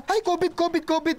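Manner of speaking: imitating a squeamish stranger; disgusted. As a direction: recoil as if touched something dirty. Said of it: "yung may pandidiri".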